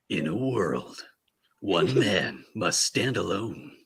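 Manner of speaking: slow, grave trailer narrator; movie trailer voice. Shown as a demonstration. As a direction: announce it like an epic film trailer. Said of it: "I need to hear this movie voice".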